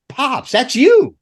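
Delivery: high, slow pops that's you; pointed reveal. Retold or imitated. Driver telling him he's the missing one, slow. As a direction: spell it out slowly.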